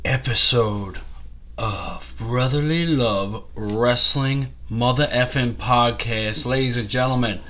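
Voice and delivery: slow, loud announcer welcome; grand show opener; podcast host intro. Acted. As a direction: open the show like a ring announcer.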